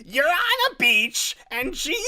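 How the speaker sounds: very high, loud, shrill teacher; Gilbert Gottfried. Acted. Shrill teacher leading class meditation, mimicked screech. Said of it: "it was almost like Gilbert Gottfried".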